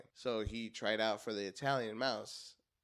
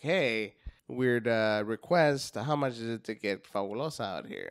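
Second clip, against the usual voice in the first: loud, raised quoted request; acted request; 8 dB louder than usual. Bookers asking a comic for his character, acted loudly. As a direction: call it out, imitating the bookers.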